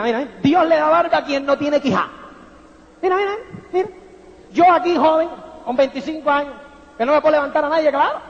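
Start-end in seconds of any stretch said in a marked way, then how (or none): 3.0-8.2 whiny mock of a jealous young guy; envious young man. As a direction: mimic the bitter envious kid. (joven envidioso, imitado con tono quejumbroso)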